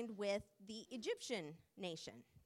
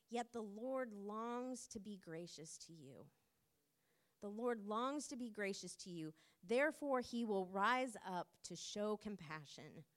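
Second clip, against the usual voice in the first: compassionate tone. Acted. Pastor reading Isaiah's promise to the congregation, gently compassionate. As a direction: let God's longing sound tender and patient. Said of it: "his compassionate tone here".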